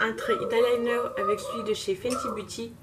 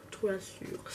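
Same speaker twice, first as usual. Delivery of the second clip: "Très Assure" retried softer and quicker in a French accent; second, quieter French-accented go at "Très Assure"; French-accented English retry; 5 dB quieter, slower than usual. Real, not acted. Vlogger correcting herself on an English shade name, quieter French accent. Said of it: "Moi et mon accent anglais".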